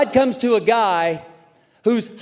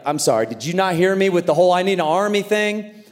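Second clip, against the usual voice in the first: incredulous complaint. Retold or imitated. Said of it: "I'd be like".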